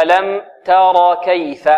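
slow "تر كيف", plain a after a light t; correct middle fatha. Shown as a demonstration. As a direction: deliberately model "تر" with heavy raa, light t. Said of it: "هكذا". ("تر كيف" بتأنٍ وفتح متوسط)

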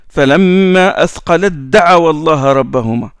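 chanted tajwid recitation, a little quick; Quran recitation. Acted. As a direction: recite the verse as in class.

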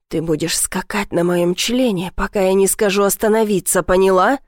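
plain reading voice

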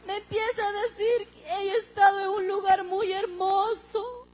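weeping while quoting her mother; words broken by real tears, slowed; crying. Real, not acted. Daughter tells church of mother's heaven, crying.

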